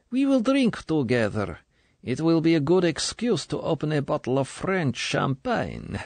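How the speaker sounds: put-on high, honeyed older official's voice; smooth and sugary. A narrator's reading. Colonel coaxing young recruit, smooth and sugary. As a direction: coax her smoothly, like sweet poison. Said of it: "she said smoothly".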